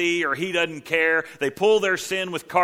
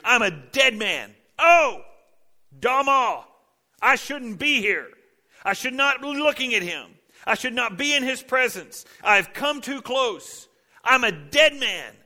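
anguished cry; 9 semitones higher than usual. Retold or imitated. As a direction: plead in terror before God. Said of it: "Isaiah cries out".

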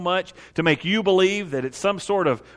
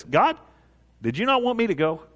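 higher-pitched, hammed-up innocent query; mock-innocent question; 5 semitones higher than usual. Balaam asks God after nearly being killed, mock-innocent. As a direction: ask as if genuinely clueless.

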